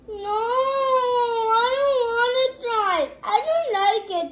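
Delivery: imitating a whining child, high and loud; mock crying kid refusing food; whiny refusal. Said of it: "he's like".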